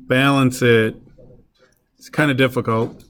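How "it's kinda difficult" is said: dry sarcastic understatement. Real, not acted. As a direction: say it deadpan, not meaning it.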